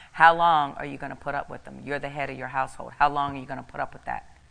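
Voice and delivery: loud, commanding voice of God; stern divine rebuke; forceful rebuke. Retold or imitated. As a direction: press him hard with the question. The Lord's rebuke retold.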